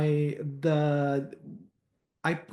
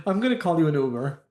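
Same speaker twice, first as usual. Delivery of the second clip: laughing joke; 3 dB louder, faster than usual. Real, not acted. Joking through laughter.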